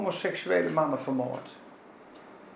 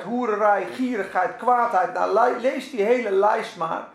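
normal talking voice

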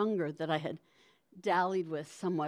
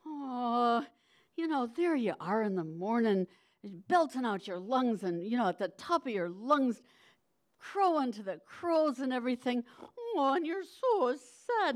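Polly Garter line; 4 semitones higher than usual. Retold or imitated. Reciting Polly Garter's line, crooning to the baby. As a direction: croon it like a lusty washerwoman to a baby. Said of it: "the line was something like".

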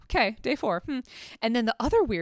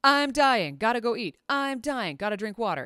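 mock distress call; 3 semitones higher than usual. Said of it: "throw up a flare".

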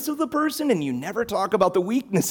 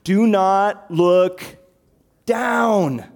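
louder, slow "Do not look", higher "down"; warning shout; 5 semitones higher, 5 dB louder, much slower than usual. Retold or imitated. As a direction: call up to a climbing child. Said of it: "They would tell you".

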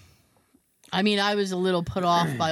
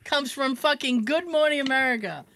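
laughing; 6 semitones higher, 4 dB louder than usual. Real, not acted. Laughing exasperation.

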